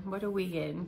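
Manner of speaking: normal talking voice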